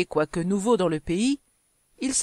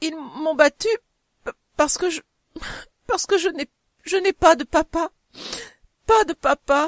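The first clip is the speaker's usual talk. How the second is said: voice thick with tears, choked; 8 semitones higher, 3 dB louder than usual. Answering a worker who asked what was wrong, tearful, choked voice. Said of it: "avec des larmes plein les yeux et plein la gorge".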